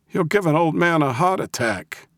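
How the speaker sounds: high, crabby mock-brave holler; old man's bluffing yell. A narrator's reading. Old man confronting four men by the car, bluffing bravely. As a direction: yell high, putting on bravado. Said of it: "he yelled, trying to sound braver than he felt".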